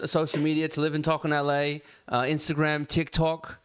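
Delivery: put-on mild British accent for the show outro. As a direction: sign off the stream like a London lad. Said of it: "Your British accent is actually really fucking good".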